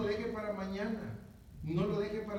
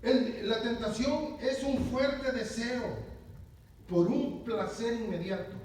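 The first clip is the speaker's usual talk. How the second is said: slow dictation; 4 dB louder, slower than usual. Shown as a demonstration. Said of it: "Y uno dice".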